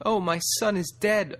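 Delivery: high, loud grieving wail. A narrator's reading. A doe wailing to the warren over her son. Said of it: "a doe wailed".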